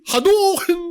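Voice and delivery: joking yell of a made-up word; playful shout. Pretend. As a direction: bellow it like a silly battle cry. Yelling made-up insult, joking.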